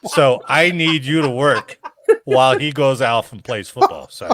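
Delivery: smug boss brushing off a request; mock commander. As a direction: play the jerk commander, laughing. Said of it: "I'm your commander".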